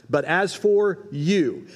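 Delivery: slowed, FOR held long and lifted; slow emphatic quote. Shown as a demonstration. Preacher reads the key phrase again, slow and lifted. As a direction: draw out "for" and lift the phrase. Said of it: "I would do that phrase right there".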